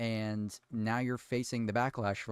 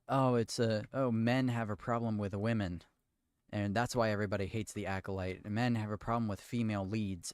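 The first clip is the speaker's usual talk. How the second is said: mocking showrunners. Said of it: "the excuse that some of the showrunners are using".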